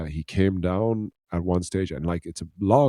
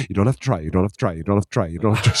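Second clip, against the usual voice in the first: mock panicky reassurance; mildly acted panic, words tumbling out; panicked mother; much faster than usual. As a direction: imitate a flustered mum rattling it out on repeat. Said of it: "she was in full on panic mode".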